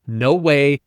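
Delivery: lightly acted client's excitement; excited exclamation. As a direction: quote his amazed reply with exclamation marks. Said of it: "all kinds of exclamation marks".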